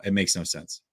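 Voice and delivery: soft, breathless whisper; exasperated whisper of disbelief. Real, not acted. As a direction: let it fall to a whisper. Disbelief at Niners.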